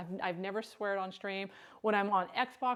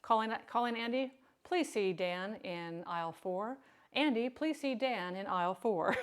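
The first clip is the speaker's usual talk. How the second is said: slow store intercom voice; flat echoey pa page; 2 semitones lower than usual. Pretend. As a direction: page Andy like a shop PA. Mock store PA announcement.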